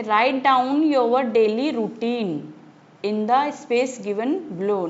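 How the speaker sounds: measured recitation, very slow; slow reading aloud. Acted. Teacher reading the poem to her class, slow and measured. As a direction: read each word slowly and clearly for the class. Reads workbook instruction aloud.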